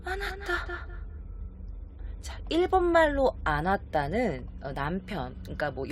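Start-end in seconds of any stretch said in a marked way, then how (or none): 0.1-0.9 high, soft, breathy-hushed gasp of a word; stunned mother. Acted. Mother faces the stranger, a soft high stunned word. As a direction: say it softly and higher, caught off guard. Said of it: "엄마는 이렇게 말을 하죠".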